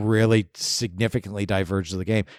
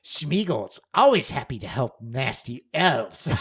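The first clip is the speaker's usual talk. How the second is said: sarcastic; slower than usual. Retold or imitated. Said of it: "he just says something really sarcastic like".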